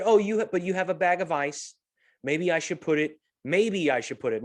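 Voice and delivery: a hint of the girl's tentative offer; imitating the bagger girl. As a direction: lightly act the hesitant young bagger. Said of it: "that's how she said it".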